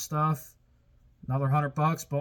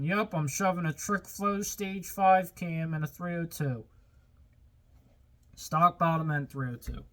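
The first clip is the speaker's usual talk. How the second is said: lightly voiced idiot, pitched up; slightly higher, mocking imitation of an overconfident fool; mock clueless idiot; 3 semitones higher than usual. Mechanic mimicking some idiot off the street, lightly mocking. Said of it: "I'm not just some idiot".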